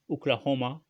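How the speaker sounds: « Oklahoma » à l'américaine, avec un « h » rauque et un « a » ouvert au milieu. Shown as a demonstration. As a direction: dire « Oklahoma » comme un Américain, le « h » bien soufflé. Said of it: "comme ils disent les Américains". (« Oklahoma » prononcé à l'américaine, avec un « h » guttural)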